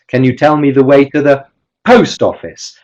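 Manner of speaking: "post" lifted and stressed, falling after; strong emphasis landing on "post"; nuclear stress. Shown as a demonstration. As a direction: hit "post" in "post office". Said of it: "just invent a gesture for each".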